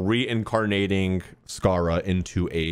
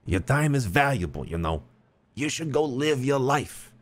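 imitating a wise old mentor; lightly mocking sage advice; meme voice; 7 semitones higher than usual. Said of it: "actually is my meme voice".

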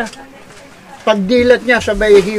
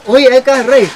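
louder familiar hail; calling out greeting; 3 semitones higher, 4 dB louder than usual. Acted. Doorman greets regular at disco bar, calling out.

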